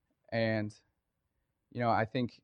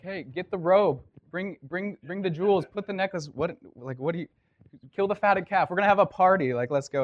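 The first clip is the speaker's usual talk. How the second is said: high, loud, rushing with joy; a father bursting to celebrate; excited father; 8 semitones higher, 9 dB louder than usual. Retold or imitated. Excited father throws a party.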